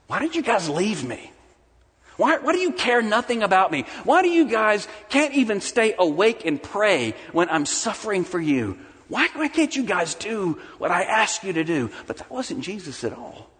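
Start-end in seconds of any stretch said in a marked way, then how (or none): 0.1-11.9 hammed-up complaint of an abandoned friend; mock accusation. Preacher imagining himself accusing friends who left him, mock hurt. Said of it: "My first question would be an accusation".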